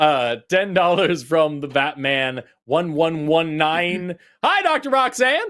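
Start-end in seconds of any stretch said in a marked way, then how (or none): 4.4-5.4 silly, odd, very high made-up voice. Host reads a donor's message addressed to Doctor Roxanne in a put-on voice. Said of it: "I don't know why I gave him that voice".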